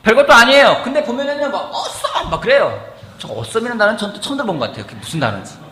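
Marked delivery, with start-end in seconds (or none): 1.7-2.3 high-pitched mock "awesome" exclamation; imitated enthusiastic cheer. Preacher imitating how church members react, enthusiastic high cheer.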